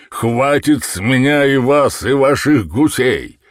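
a shopkeeper bellowing in fury; furious market trader roaring; angry yelling. A narrator's reading. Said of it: "орал Брекенридж".

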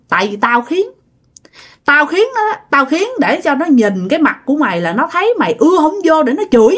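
mock berating, pitch leaping on the grievances; retold scolding. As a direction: imitate a resentful spirit telling his son off. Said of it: "Quay qua chửi".

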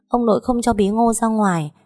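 put-on a frightened small child calling her mom; little girl voice. Little daughter clinging to mother, scared and whimpering.

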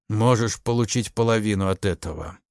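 plain reading voice

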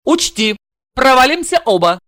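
lightly voiced cool blonde; a hint of a cold warning; blonde's ultimatum. Блондинка предупреждает Игоря, слегка холодно. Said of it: "заявив".

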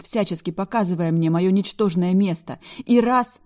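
loud, high, indignant tirade; furious rant. A narrator's reading. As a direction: pour out every grievance at him. Heroine's furious rant at Black.

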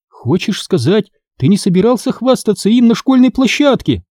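high, sneering question; mocking. Sister mocks brother for wanting to brag, mocking. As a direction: needle him for showing off. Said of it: "издевательски спросила я".

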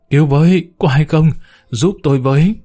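bang on the gate and cry for help; panicked cry. Acted. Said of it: "vừa kêu thất thanh".

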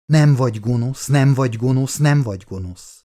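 "nem vagy gonosz" repeated in heavy beats, stress on each "nem"; drumbeat rhythm. A narrator's reading. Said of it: "mintha valaki dobon ver neki egyetlen szót".

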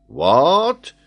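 high, loud, rising disbelief; astonished rising question; shocked exclamation. A narrator's reading. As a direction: burst out incredulously. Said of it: "exclaimed Paganel".

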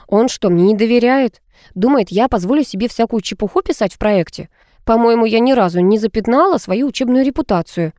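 ordinary delivery

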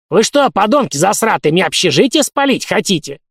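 put-on high, loud old-man scold; angry scolding. A narrator's reading. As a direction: tell them off furiously. (гневно, старческим голосом)

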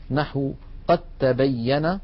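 قد تبين said as qattabayyan, no د; slow, careful merged reading. Shown as a demonstration. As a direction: read it with the letters merged. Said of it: "لاحظوا أقول".

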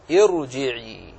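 "ارجعي" slow, starting on "ir" with heavy ر; drawn-out example word. Shown as a demonstration. Teacher isolating the word, slow "ارجعي" with heavy ر. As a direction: stretch "ارجعي" out, falling at the end.

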